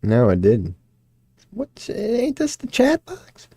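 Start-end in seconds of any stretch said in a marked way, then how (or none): 1.5-3.5 soft unvoiced whisper to himself. Real, not acted. Streamer whispering to himself while fixing the chat box. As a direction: breathe the question out, puzzled. Puzzling over stream layout.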